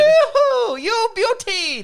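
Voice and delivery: high hammed-up Australian accent, drawn out. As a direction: squeal it like Crocodile Cook. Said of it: "He speaks with a straight accent".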